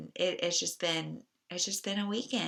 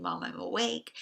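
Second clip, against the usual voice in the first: put-on high little-girl call from her room; toddler voice; 5 semitones higher than usual. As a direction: lightly imitate a small child calling. Daughter calling from her room.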